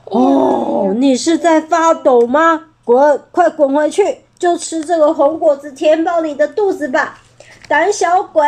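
mock the coward; villain dragon jeering at the trembling uncle; sneering mockery. Villain mocks T-rex.

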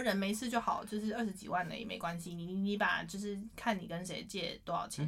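放轻声音模仿妈妈安慰; 低一点、轻一点地让女儿放心; 妈妈的安慰. Retold or imitated. 模仿妈妈安慰欠钱的女儿. (温和地转述妈妈安慰)

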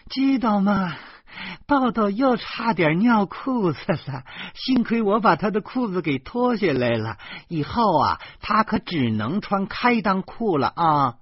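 high, loud man's voice hollering toward the kitchen; bursting in, calling out the news to his wife; loud excited calling out. A narrator's reading. Man yelling news to his wife in the kitchen, high and loud. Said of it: "冲厨房里的老婆嚷嚷说".

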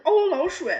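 mock surprise. Mother reading to her son, hammed-up surprise at a mouse. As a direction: play up the character's little fright. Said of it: "他说".

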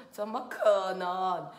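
slow, drawn-out disbelief; mildly incredulous storybook frog; disbelieving frog. Acted. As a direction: stretch it out in doubt. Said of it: "青蛙先生想说".

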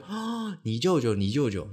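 sudden high squeal of recognition, then loud; high excited squeal, then loud; excited schoolgirls. Retold or imitated. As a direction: squeal like girls who just got it. Schoolgirls recognize the place name.

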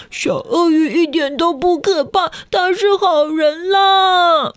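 a hint of a pleading kid; child's voice. A narrator's reading. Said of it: "也有人说".

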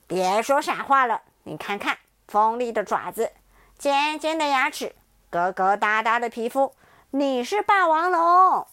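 loud, firm, slowing on the verdict; insistent tyrannosaurus. Acted. T-rex listing claws and teeth to the child, loud and insistent. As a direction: lay out the proof, then pronounce it.

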